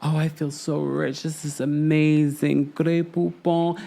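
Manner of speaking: acting new money. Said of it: "Lisa is acting all new money".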